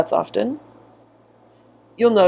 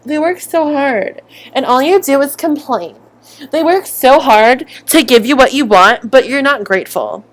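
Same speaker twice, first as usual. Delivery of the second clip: mock fan; 5 semitones higher than usual. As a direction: parrot the defensive fan. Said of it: "they constantly are like".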